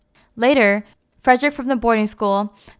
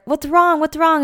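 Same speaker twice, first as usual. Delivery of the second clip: concerned asking; 7 semitones higher than usual. Retold or imitated. Family asks crying Jo.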